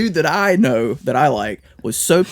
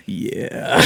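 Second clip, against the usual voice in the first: unvoiced creepy "yeah"; breathy whisper; 4 dB quieter than usual. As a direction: breathe the word out. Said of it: "And he's just like".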